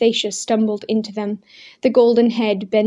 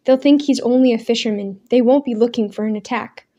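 louder, pressing the point; urging eagerly; 4 dB louder than usual. Acted. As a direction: urge him to act. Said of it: "Daniel urged".

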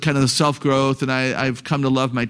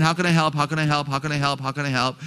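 repetitive broken record; 4 dB quieter, faster than usual. Retold or imitated. Mom answering her complaining son, calm broken record. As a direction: repeat it like an unmoved mom. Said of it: "the mom just kept saying".

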